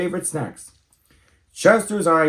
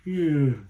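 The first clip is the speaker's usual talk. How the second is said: sleepy yawn. Acted. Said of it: "yawned Chester".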